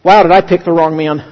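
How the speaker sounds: deadpan punchline in the woman's part; rueful aside. Retold or imitated. Woman walking away from the preacher, rueful aside. Woman muttering as she leaves.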